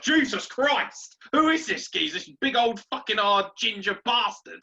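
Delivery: high, loud exclamation of disbelief; loud, high-pitched shock; mock astonishment. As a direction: cry out like a startled player, drawing out the first words. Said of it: "He's like".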